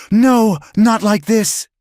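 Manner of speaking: slow, loud, high rasping plea; raspy outcry. A narrator's reading. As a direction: drag out a raw desperate rasp. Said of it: "he rasped".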